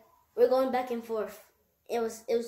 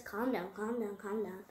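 softer, hushed calming repeats; imitating a soothing dad; 8 dB quieter than usual. Dad soothes his angry son, softly calming. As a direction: settle him down gently, quieter each time. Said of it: "his dad just calms".

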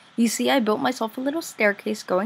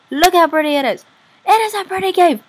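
higher, louder, gushing with delight; excited gush; 9 semitones higher, 8 dB louder, faster than usual. Real, not acted. Player showing viewers a cave she finds pretty, gushing excitedly. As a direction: burst out thrilled at the sight. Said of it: "I get excited very easily".

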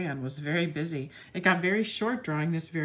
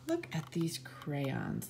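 slow secretive whisper; hushed, slow storytime whisper; 3 semitones lower, 6 dB quieter, much slower than usual. Acted. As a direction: lean in and whisper to the kids. Whispered aside to children.

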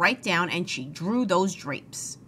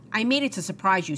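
happily; faster than usual. Acted. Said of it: "said Amelia Bedelia happily".

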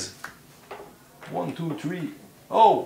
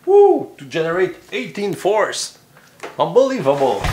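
excited; 5 semitones higher, 5 dB louder than usual. Real, not acted. Big winning combo played.

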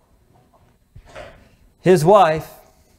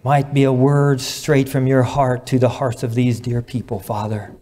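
measured, earnest public prayer; reverent prayer; 4 semitones lower than usual. Real, not acted. Preacher prays over the congregation's marriages, reverent. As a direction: address God earnestly, with pauses between phrases.

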